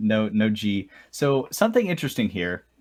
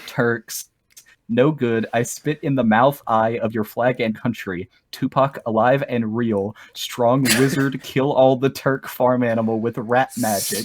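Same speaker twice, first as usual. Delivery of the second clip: lightly hammed broken English. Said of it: "the official lyrics".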